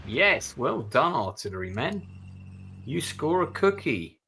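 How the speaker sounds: loud, high cheer for the gunners; loud, high whoop of praise at the artillery; excited praise. Real, not acted. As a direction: celebrate the hit like a proud coach. Cheering his artillery units.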